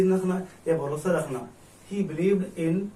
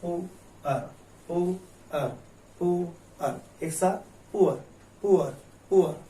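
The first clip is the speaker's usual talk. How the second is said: word drill; slower than usual. Shown as a demonstration. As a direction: drill the word "पुअर" for students. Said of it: "पढ़ना है". ("पुअर" शब्द का अभ्यास)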